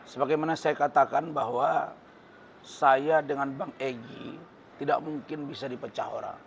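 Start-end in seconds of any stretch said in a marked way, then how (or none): none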